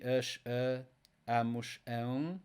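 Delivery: endings "us, a, amos, ão" sounded out separately on an A vowel; dominant A. Shown as a demonstration. Teacher comparing verb groups, A sound in "us, a, amos, ão". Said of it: "here the A is dominant".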